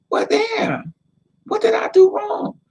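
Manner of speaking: a high, crying cry of "what did I do wrong"; crying wail. Retold or imitated. Hurt woman asks what she did wrong, crying high. Retelling her own heartbreak.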